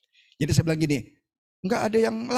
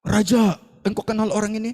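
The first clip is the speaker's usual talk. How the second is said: lightly acted angel, raised voice; a hint of heavenly herald, higher and louder; angel addressing king; 4 semitones higher, 4 dB louder than usual. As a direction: call up to the throne with a question. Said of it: "Lalu malaikat tanya".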